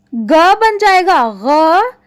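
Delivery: second ग said as a voiced throaty gh; nukta sounds. Shown as a demonstration. Teacher slowly showing pupils the throaty gh sound. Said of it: "उच्चारण हम और ढंग से करेंगे".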